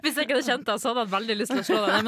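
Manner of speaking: laughing through the words, quick. Real, not acted. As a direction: giggle out the threat. Laughs while teasing friend.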